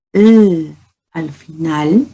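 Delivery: "l" said slowly as a lone sound; "l al final", the "l" drawn out slowly on its own. Shown as a demonstration. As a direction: isolate the "l" sound slowly for a child. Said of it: "si yo a la palabra pie le agrego".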